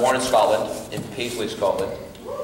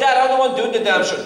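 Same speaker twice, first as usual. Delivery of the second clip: higher, louder exasperated protest; exasperated son; 14 semitones higher, 6 dB louder than usual. Retold or imitated. Son exasperated with stubborn father, loud protest. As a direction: snap back in frustration.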